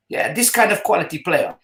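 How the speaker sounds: imitated Dutch accent, matter-of-fact. Manager's brother describing the players he wanted, Dutch accent. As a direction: make the point in a Dutch accent. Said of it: "That Dutch accent".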